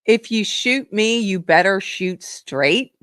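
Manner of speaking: slow, deliberate mock repetition; mocking quote. Host quoting the congresswoman back to the audience, slowly mocking. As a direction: draw out the quoted challenge, unimpressed.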